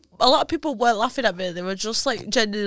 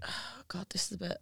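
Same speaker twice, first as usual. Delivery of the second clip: much softer, near whisper; hushed; 4 semitones lower, 18 dB quieter than usual. Real, not acted. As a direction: drop low for the gross bit. Confessing gross detail.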